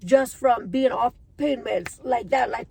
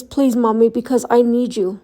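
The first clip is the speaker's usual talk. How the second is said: pleading son; 8 dB louder than usual. Retold or imitated. Son begs mother to get better.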